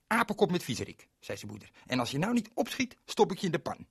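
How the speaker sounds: high, brisk mock threat; teasing mother. Mother teases Berend with a high mock threat. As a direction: playfully threaten the boy.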